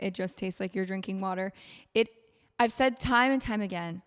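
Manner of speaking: even, measured sponsor read; podcast ad read. Real, not acted. Host tells listeners about a sponsor's product, steady ad read. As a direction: read the endorsement steadily and clearly.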